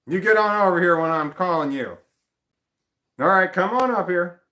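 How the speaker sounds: light mock stern. Owner calling the dog onto her lap, light parental. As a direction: call him up like a patient parent.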